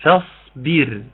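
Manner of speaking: فاصبر recited slowly with a thin, light final ر. Shown as a demonstration. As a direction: say فاصبر with a light ra after the kasra. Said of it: "أوصيك أوي أوي أوي بال- بالراء". (فاصبر براء مرققة)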